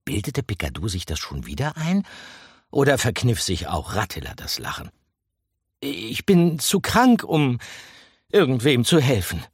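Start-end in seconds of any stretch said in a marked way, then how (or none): 5.8-9.4 a whiny mouse fending off the rats; defensive mouse. A narrator's reading. Mouse refuses to help the rats, defensively. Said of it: "erklärte der Mäuserich abwehrend".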